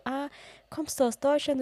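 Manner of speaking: high, light voice for the friendly man; high sweet man voice. Retold or imitated. Nice old man in the pharmacy asking where she's from, high and sweet.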